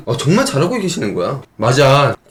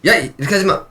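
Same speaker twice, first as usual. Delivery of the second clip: mock scolding instructor; 6 semitones higher, faster than usual. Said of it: "이렇게 하고 때렸는데".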